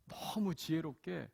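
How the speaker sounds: usual speaking voice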